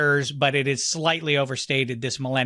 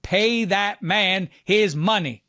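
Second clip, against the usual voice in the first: Malkovich line; 4 semitones higher, slower than usual. Retold or imitated. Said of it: "John Malkovich, like".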